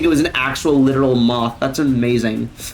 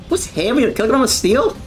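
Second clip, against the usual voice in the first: higher-pitched Scottish imitation; imitated Scottish accent; 6 semitones higher than usual. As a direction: quote it like a Scottish comedian. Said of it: "He almost says, like, steel".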